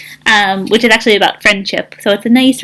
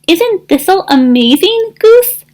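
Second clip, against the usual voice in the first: gushing; 9 semitones higher, 3 dB louder than usual. Acted. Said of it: "Duck quacked".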